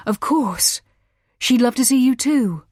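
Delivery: a bad liar's voice jumping high and loud; voice lifts high. A narrator's reading. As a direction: lift the voice way up as you fake it. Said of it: "His voice lifted an octave as he voiced the lie".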